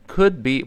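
"Could be" with the d held, straight into b; unreleased d. Shown as a demonstration. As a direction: say "Could be" without releasing the d. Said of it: "注意失去爆破了啊". (could be的d失去爆破)

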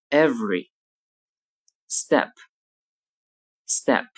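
each word said twice, relaxed, with a short lax "e" as in "bed"; lax vowel e demo. Shown as a demonstration. Teacher modelling the lax e for students, mouth relaxed. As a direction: keep the mouth half open and the face relaxed for "e". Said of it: "例如在单词中".

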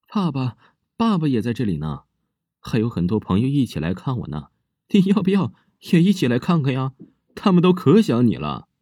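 put-on a creepy child cheerfully calling her stepmother to join the ghosts; eerie little girl. Girl invites stepmother to meet the ghosts, eerie high child voice.

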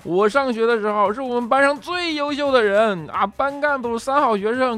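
high, drawn-out weepy complaint; mock tearful wife. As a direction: wail her boasts in a put-on sob story. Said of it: "就在那里就一把鼻涕一把泪".

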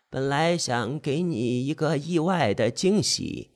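slow, soft reading of a message; reading a text aloud. Retold or imitated. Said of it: "在我耳边念叨".

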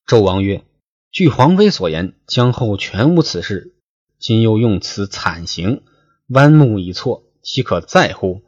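说书人朗读古文; classical story reading. Acted. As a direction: read the old novel aloud like a storyteller. Reads classical novel text aloud.

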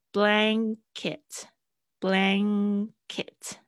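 "blanket" drawn out very slowly, NG held at the back; careful pronunciation. Shown as a demonstration. Teacher demonstrating the NG sound slowly. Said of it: "他们很在意这个N G跟N的发音的差别".

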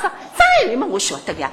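imitating mother's matter-of-fact reply, falling away at the end; cool, unimpressed. Mother answers her child's question about the famous writer, coolly matter-of-fact. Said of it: "很冷静的".

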